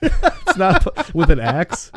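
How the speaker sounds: asked through real laughter; laughing. Real, not acted. Laughing to her co-host about the absurd axe kill. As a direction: laugh it out in disbelief.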